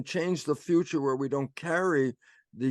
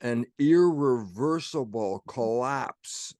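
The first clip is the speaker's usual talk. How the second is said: slow, weighty emphasis on "irreversible"; "irreversible" stretched and punched; stress on irreversible; 3 dB louder, slower than usual. Shown as a demonstration. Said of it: "and here's the emphasis".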